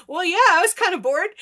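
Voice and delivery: put-on high, loud, fast eager child voice; excited kid self. Bored kid answering friendly crocodiles, high and eager.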